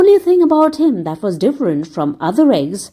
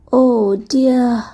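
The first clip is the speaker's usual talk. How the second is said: mild groan; 2 semitones higher, much slower than usual. Acted. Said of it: "groaned poor Humpty Dumpty".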